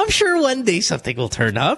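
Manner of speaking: high, rising, swooping, swinging voice. Acting out a chat, answering someone who just said they're unemployed: higher-pitched voice. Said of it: "Tumataas yung boses".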